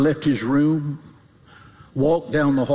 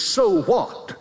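higher-pitched, defiant "so what"; world's dismissive attitude; 4 semitones higher than usual. Acted. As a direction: shrug it off with your voice. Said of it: "Your world's attitude is".

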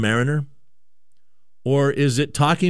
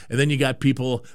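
ordinary talk, nothing marked

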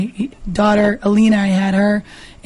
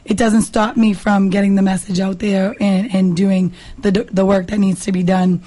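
raspy voice. Real, not acted. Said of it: "it typically isn't this raspy".

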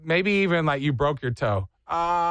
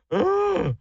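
disgusted ugh. Retold or imitated. Recalling hated vegetable dish.

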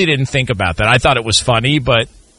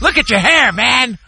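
angry dad impression; 10 semitones higher than usual. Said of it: "Do the impression".

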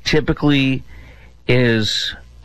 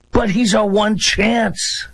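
mock desperate hype; 9 semitones higher, slower than usual. Mocking Democrats' mantra.

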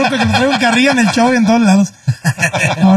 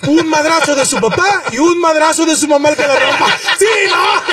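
shout; 2 semitones higher than usual. Real, not acted. Ending rant, shouting punchline.

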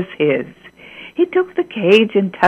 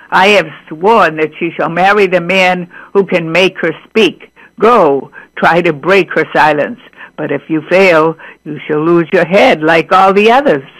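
a hint of a stern king, louder and firm; 3 semitones lower, 4 dB louder than usual. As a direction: warn the suitor like a king. King warning the prince.

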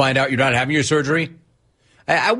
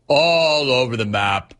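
"All over the map" stretched slowly, "All" held long; drawn-out repeat. Real, not acted.

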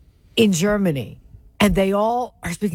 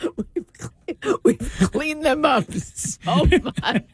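mock British accent; 5 semitones higher, much slower than usual. Mock line in movie accent.

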